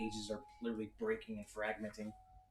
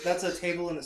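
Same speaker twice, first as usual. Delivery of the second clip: laughing; 6 semitones higher, 8 dB louder, much faster than usual. Real, not acted. GM answers while laughing.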